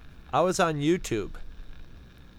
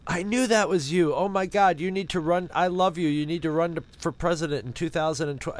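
excited fans; 3 semitones higher than usual. Retold or imitated. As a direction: gush like a starstruck supporter. Gushing fans write to "Palin.

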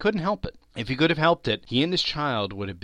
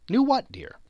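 high-pitched, gentle query; puzzled wifely question; 14 semitones higher, 4 dB louder than usual. Acted. Wife asks Bob what he means, puzzled query. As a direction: lift it high in mild puzzlement.

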